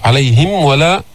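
عليهم ولا with a distinct م before و; careful unmerged م in عليهم ولا; clear meem. Shown as a demonstration. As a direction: close firmly on the م of عليهم, then ولا. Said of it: "الميم تظهر يعتنى بإظهارها".

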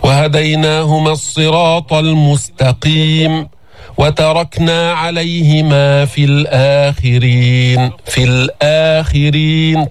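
slow, sustained tajweed chant; Quranic recitation. Shown as a demonstration. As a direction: recite with long, even held vowels. Recites verses as model.

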